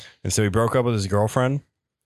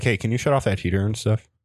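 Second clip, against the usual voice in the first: plain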